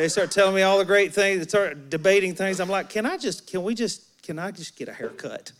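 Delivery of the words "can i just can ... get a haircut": weary mock plea. Retells pleading to avoid spiritual talk.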